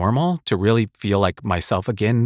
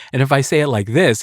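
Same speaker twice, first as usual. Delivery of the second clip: bored and sarcastic; 3 semitones higher, 3 dB louder than usual. Shown as a demonstration. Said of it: "it sounds like a little bit bored and sarcastic".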